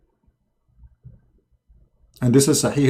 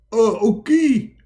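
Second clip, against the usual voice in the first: high, slow put-on reply; meek squeaky agreement; Muhammad; 8 semitones higher, slower than usual. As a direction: drag out a high comic okay. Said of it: "and Muhammad, he answer".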